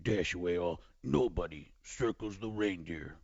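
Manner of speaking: Chris Berman impression. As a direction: roll out the names like highlight calls. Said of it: "Chris Berman".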